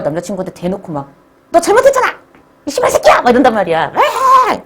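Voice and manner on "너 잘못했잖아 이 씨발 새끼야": much higher, shrill-free furious shout; angry girlfriend yell. Acted. Girlfriend screaming at boyfriend during a fight, furious.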